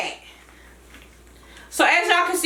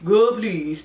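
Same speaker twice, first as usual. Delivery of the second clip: put-on deeper Atlanta voice saying "Girl, please."; "Girl, please." in a lower, dismissive Atlanta tone; Cousin Fat; 5 semitones lower than usual. Shown as a demonstration. Creator contrasting Cousin Fat against Trina, deeper. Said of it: "That's more Cousin Fat".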